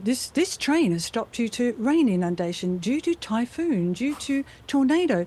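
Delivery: smiling train announcement in posh Aussie; cheerful recorded announcer, lifting into "tornado"; smiley announcer. Shown as a demonstration. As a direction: list the disruptions with an announcer's smile. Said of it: "make it less smiley".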